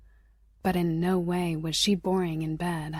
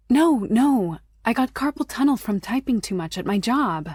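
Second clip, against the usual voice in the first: high, loud hurried correction; flustered protest; 4 semitones higher, 5 dB louder than usual. Acted. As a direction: blurt it out, embarrassed. She protests, realizing his mistake.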